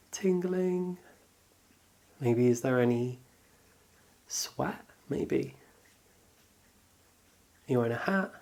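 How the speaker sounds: calm, unhurried meditation guidance; guided body scan. Acted. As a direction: guide them gently through noticing the body, with pauses.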